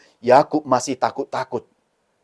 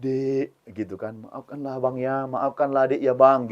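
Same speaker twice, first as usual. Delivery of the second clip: tearful apology; 5 dB quieter than usual. Acted. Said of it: "mereka saling menangis".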